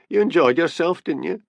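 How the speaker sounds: high, heated retort. A narrator's reading. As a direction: throw it back with some indignation. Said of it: "said Annie hotly".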